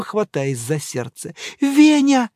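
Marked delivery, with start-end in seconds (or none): 1.6-2.3 high, loud frightened cry; frightened call. Acted. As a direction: call your husband in terror. Дама в ужасе зовёт мужа. (дама в ужасе громко зовёт мужа)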